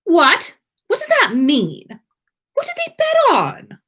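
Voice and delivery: rising, loud panicked questions; alarmed. A narrator's reading. Draco panicking about the bet, alarmed. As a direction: fire them off in sudden alarm. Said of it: "looking alarmed".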